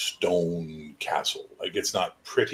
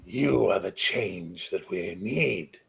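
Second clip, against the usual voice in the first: solemn charge; slower than usual. Acted. Old king's solemn charge.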